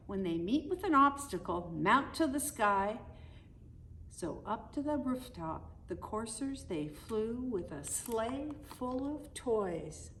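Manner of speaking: lilting read-aloud poem voice; storybook narration. Acted. Parent reading the Christmas poem to the kids, lilting storybook narration. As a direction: read the rhyme to the children like a bedtime story.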